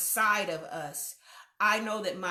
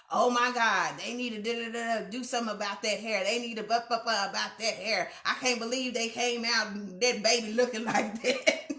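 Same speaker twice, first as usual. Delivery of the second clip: mock judgmental gossip. Onlookers gossiping about a child's hair, mock judgmental.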